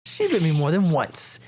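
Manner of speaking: a lightly growled pirate challenging the lawyer; gruff sailor talk, daring them; pirate witness. Acted. Pirate witness scoffs at the lawyer's accusation, lightly gruff.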